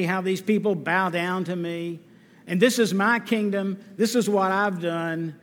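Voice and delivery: preen like a proud king surveying his kingdom; hint of a gloating monarch; boastful king. Boastful king praising himself.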